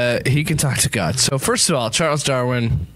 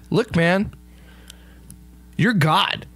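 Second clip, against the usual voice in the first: high placating; 7 semitones higher, slower than usual. Acted. Darwin placating God.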